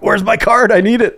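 high mock whine; lightly high needy gadget; beeping detector voice. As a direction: voice the eager amulet. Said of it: "be like".

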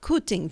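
"cooting" with an oo vowel; attempted Yorkshire pronunciation. Shown as a demonstration. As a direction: tentatively try "cooting" with a northern oo. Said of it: "No, that didn't sound right".

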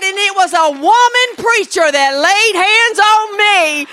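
high, shouted revival preaching; full-force preaching. Real, not acted. Preacher telling the congregation who gets the glory, fervent shout. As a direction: drive it home to the congregation at full volume.

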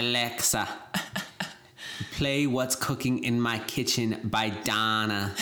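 attempted Scottish accent; rough mock Scottish accent. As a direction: imitate a Scot giving Alexa orders, slowly. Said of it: "it's a Scottish person yelling at Alexa".

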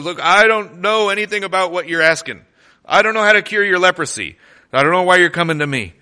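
loud, high, rushed protest of a panicked king; distressed king. Retold or imitated. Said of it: "the king actually tears his clothes".

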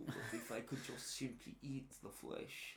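soft, hushed mock Jewish accent. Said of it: "he went Jewish at the end there".

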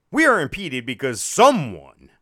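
loud mock announcer scolding; hammed-up automated reprimand; condescending recording. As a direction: call out the culprit like a snooty recording. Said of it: "like, real condescending".

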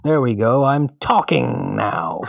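slow, calm crime boss voice; a hint of a menacing crime lord; Kingpin voice. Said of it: "I sound like the, uh, Kingpin from Daredevil".

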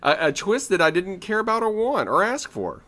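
laughing. Real, not acted. Laughing agreement, high and loud.

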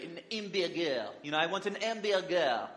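mock Inspector Clouseau French accent, lightly done; a hammed-up French accent for the hamburger line; a hint of a silly French accent; bad French accent. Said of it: "a bad impersonation ... of a French, French accent".

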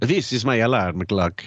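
imitating a put-on Spanish accent; mock Spanish accent. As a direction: say it with a fake Spanish lilt. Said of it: "talking in a Spanish accent".

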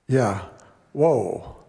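ordinary talk

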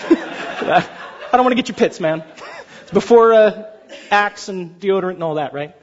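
chuckling through the joke; a lightly voiced Jesus, laughing. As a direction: laugh while playing Jesus teasing Peter.

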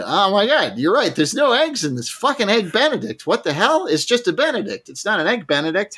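high-pitched mock outrage; acting out an incredulous complaint; indignant disbelief. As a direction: exclaim it in retold exasperation. Acting out Norm's outraged discovery.

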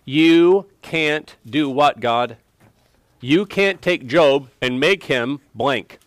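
slow, lightly acted taunt at God; slow, emphatic mock challenge; Satan's challenge. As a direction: voice the accuser's challenge, word by deliberate word. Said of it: "Satan is saying".

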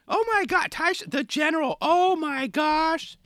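put-on high, gushing old lady, last words drawn out slow; gushing grandma. Grandma reacting to the footage, gushing high and slow. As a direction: coo it like a proud grandma. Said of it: "Grandma's reaching out".

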